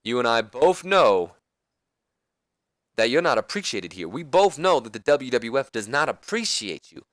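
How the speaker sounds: a hint of the Nature Boy, persuading; Ric Flair voice. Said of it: "And then Flair goes".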